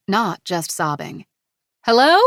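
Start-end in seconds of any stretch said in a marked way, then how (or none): 1.8-2.2 loud, higher call into the grass. A narrator's reading. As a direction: call out to someone unseen. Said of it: "she called out".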